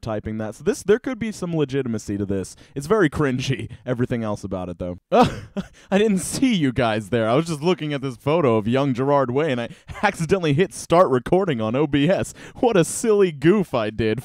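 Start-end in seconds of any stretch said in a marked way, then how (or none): 5.1-14.2 hammed-up surprise; mock caught off guard. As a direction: act sheepish, like you got caught. Fake caught-recording intro.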